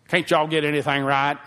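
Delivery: snooty, exasperated complaint; mock a huffy diner snapping at the waitress; rude customer. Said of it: "You don't have to blow out your nose and say".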